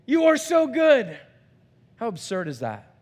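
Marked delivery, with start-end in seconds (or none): none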